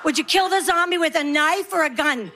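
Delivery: a lightly voiced nagging kid; pestering son. Son in the back seat pestering Mom, lightly voiced child. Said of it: "He'd be like".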